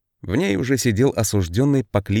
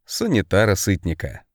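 plain reading voice

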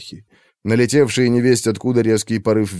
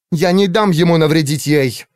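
higher, louder defiant cry; defiant shout; 6 semitones higher, 3 dB louder than usual. A narrator's reading. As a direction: shout over the hurricane. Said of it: "ей приходилось кричать". (Валира кричит сквозь ураган)

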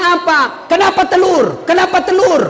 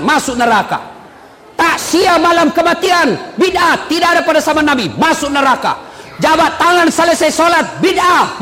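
mocking a harsh preacher. Preacher mocking hardliners who call everything heresy, ranting. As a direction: rant it like a smug preacher damning everyone. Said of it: "Langsung nak kasih kafir semua orang".

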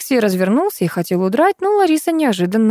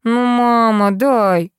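mildly wheedling son, slightly higher; pleading; 4 semitones higher, much slower than usual. A narrator's reading. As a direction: coax mum for a favour. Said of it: "сменил наглый тон на просительный". (просительно, слегка канюча)

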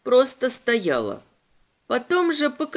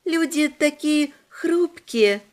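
demon voice; 4 semitones higher, slower than usual. A narrator's reading. Demon speaks.

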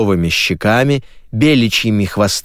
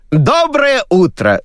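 much higher, slow booming greeting; hosting shout; 13 semitones higher, slower than usual. Acted. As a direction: greet the audience at full showman pitch. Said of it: "закричал Сергей".

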